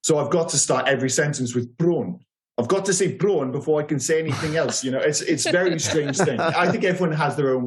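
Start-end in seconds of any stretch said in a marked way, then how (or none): 1.8-2.2 lightly put-on South African accent; "Bron" as prawn in a South African accent. Shown as a demonstration. Co-host showing his District 9 way in, South African accent. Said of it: "my way into a South African accent". 3.1-3.5 lightly put-on South African accent; "Bron" as prawn in a South African accent. Shown as a demonstration. Co-host showing his District 9 way in, South African accent. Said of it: "my way into a South African accent".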